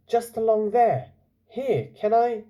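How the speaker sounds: put-on young man's voice. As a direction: point the way, then ask shyly. Young man answers in story.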